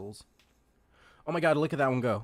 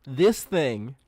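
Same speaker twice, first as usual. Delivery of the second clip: incredulous, raised-voice questioning; astonished, emphatic protest; loud disbelief; 5 semitones higher, 9 dB louder than usual. Real, not acted. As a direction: repeat it louder and higher, refusing to believe it. Can't believe cute stoats are invasive.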